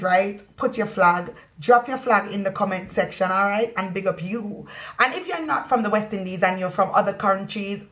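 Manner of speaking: light Caribbean patois lilt; friendly Jamaican-style patois shout-out; West Indian accent. Pretend. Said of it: "me West Indian accent".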